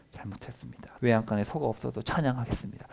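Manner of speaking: bow your head and confess quietly; a hushed, humbled apology to God; humbled repentance. Retold or imitated.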